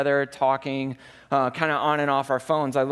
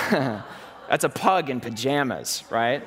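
slow, amused, half laughing; laughing at the pug photo; laughing reveal; 2 semitones lower, slower than usual. Real, not acted. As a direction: savour the silly picture.

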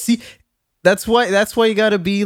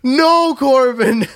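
mock distress; 6 semitones higher, slower than usual. Mock-distraught scolding of cringey line.

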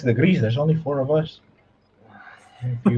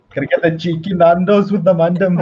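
mock Roadman; 4 semitones higher, 3 dB louder than usual. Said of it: "He should just speak Roadman".

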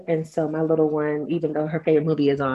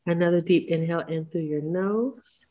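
breathy unvoiced breathing cue; whisper.

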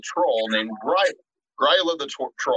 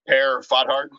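Americanized French; slower than usual. Shown as a demonstration. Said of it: "I'm just gonna Americanize all these".

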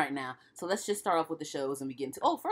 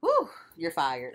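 slow mocking taunt; 5 dB louder, much slower than usual. Mocking Trump catchphrase.

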